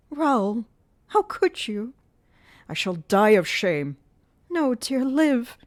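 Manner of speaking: high, loud pained heroine's voice; grave changed voice. Acted. Christine pleading with despairing Raoul, high pained voice. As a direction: cry it out high and hurt. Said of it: "in Christine's grave and changed voice".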